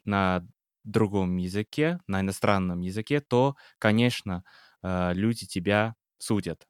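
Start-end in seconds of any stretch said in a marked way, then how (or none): none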